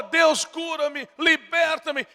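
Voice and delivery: high, slow mimicked plea to God; mock pleading prayer. Preacher imitating a sick believer's prayer, high and drawn out. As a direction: act out the begging believer.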